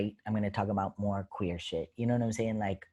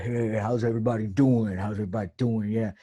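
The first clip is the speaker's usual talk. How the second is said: put-on feminine stage greeting, pushed out louder; high-pitched feminine voice; 6 dB louder than usual. Comic greeting the audience at the top of a show, put-on feminine voice. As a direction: greet the crowd in an affected feminine voice. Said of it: "this very high-pitched sort of feminine voice".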